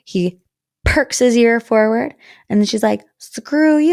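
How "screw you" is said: higher and louder, out in full voice; said with her whole chest. Retold or imitated. Leah finally telling Rob off out loud, higher and louder. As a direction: stop hiding it and spit it straight at him. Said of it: "say it with your whole chest".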